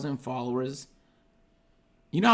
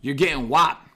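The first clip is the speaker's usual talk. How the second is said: reading threat comments. Retold or imitated. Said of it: "Let me read these real quick".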